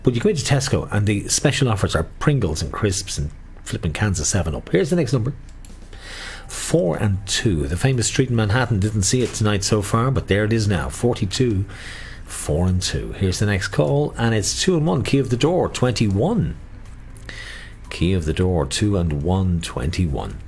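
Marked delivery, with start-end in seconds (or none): 4.7-7.7 sing-song number calling; bingo caller. Acted. 10.9-20.4 sing-song number calling; bingo caller. Acted.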